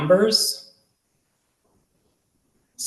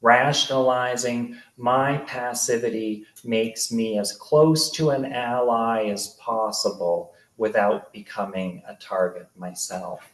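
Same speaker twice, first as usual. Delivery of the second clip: measured literary narration with deliberate pauses; memoir reading. A narrator's reading. Author reads childhood memoir about Darren, measured narration. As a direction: read it out to a live audience, phrase by phrase.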